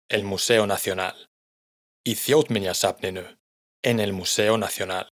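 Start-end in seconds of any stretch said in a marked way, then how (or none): 2.1-3.4 Þjóðminjasafninu with the stress on Þjóð at the start; Icelandic word demo. Shown as a demonstration. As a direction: say Þjóðminjasafninu with a strong first syllable. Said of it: "el acento siempre lo lleva la primera sílaba". (Þjóðminjasafninu con el acento en la primera sílaba, Þjóð)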